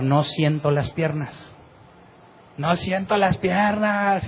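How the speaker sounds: lamento imitado, arrastrado, que va subiendo; grito de angustia contenido, sílabas muy alargadas. Retold or imitated. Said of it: "empezó a gritar". (grito de herido imitado, sin volumen)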